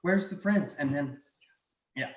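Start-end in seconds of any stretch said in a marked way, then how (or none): 0.0-0.8 high, lightly put-on plea; mimicked voice. Game master repeats the dragon's mimicry, mimicked voice. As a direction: lightly mimic a worried searcher. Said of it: "in the voices that you just heard".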